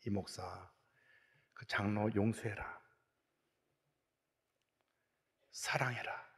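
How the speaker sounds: low, hushed, slow divine voice; quiet command, spaced out and low; voice of the Lord. Retold or imitated. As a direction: imitate God speaking softly and deep. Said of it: "주님 말씀하시기를".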